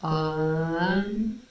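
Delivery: "un" opened out from an O; O-like vowel. Shown as a demonstration. Reviewer showing how sun starts, drawn-out O vowel. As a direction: stretch "un", starting on a round O. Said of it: "it starts out as an O".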